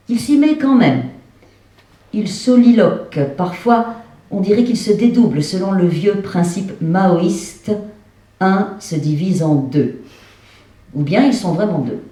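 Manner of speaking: measured recitation, phrase by phrase; literary stage reading. A narrator's reading. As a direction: read it out to an audience, deliberately. Reads the text aloud on stage. (lecture littéraire à voix haute)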